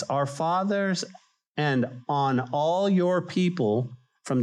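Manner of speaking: slow, lifted prayer reading; solemn scripture reading. Acted. Preacher reading Nehemiah's prayer to church, solemn. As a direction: read the prayer with weight.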